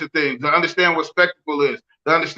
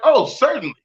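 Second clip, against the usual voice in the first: prim, higher mock-polite reply; a touch of fake courtesy; 5 semitones higher than usual. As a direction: sound falsely agreeable. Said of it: "I'm like".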